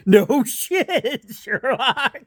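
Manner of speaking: laughing retort. Retold or imitated. Sarcastic retort to dad, laughing.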